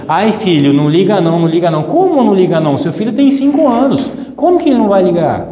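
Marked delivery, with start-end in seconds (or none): 0.1-1.8 soothing dismissal. Retold or imitated. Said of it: "e aí você chega e fala assim".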